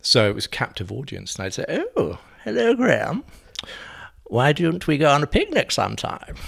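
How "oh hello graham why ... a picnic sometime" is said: Jenny Fulborough voice. Retold or imitated. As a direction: trill like a dotty dame after a few sherries. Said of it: "Jenny Fulborough".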